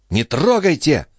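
high, sharp refusal; high frightened girl; recoiling cry. Acted. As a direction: pull away as from a snake. Recoils from his hand.

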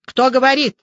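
curt, loud, clipped-out demand; commanding tone. A narrator's reading. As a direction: bark it like an officer. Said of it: "командным тоном отчеканил собеседник". (командным тоном, чеканя)

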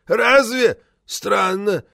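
high, loud puzzled reply; loud surprise. A narrator's reading. Deaf member reacting to the news, loudly puzzled. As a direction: blurt it out high, baffled.

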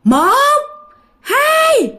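high, drawn-out count; eerie high count; ghostly counting. Acted. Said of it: "ổng mới nghe đếm".

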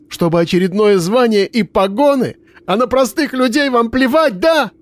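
rising fury. Acted. Miroslava accuses the investigator, building to fury.

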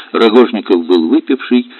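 plain reading voice

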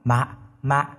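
put-on small pouty toddler voice; whimpering baby. A narrator's reading. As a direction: narrator imitating baby babble, ending high. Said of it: "Lạc mở mắt tròn xoe mếu máo".

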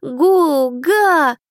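put-on a baby shouting for attention; toddler exclaiming. A narrator's reading. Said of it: "воскликнул ребёнок".

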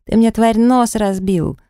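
high-pitched, drawn-out complaint; outraged yell. A narrator's reading. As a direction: wail in hurt outrage without full volume. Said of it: "заорал он благим матом". (возмущённый вопль высоким голосом)

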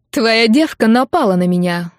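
громко, с обидой; наябедничать, повысив голос; возмущённая жалоба. Acted. Алина обвиняет Катю в драке. (громкое возмущение)

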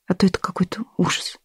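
soft breathy whisper. Acted. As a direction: whisper it close. Stepmother's soft aside.

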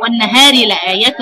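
والنهار with the ra merged into the lam; demo recitation. Shown as a demonstration. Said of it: "الراء تضغم في اللام".

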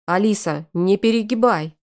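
a stern, warning call of the name Алиса with a falling end; lightly stern elder brother; hint of a frown in the voice. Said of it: "нахмурился Ромка".

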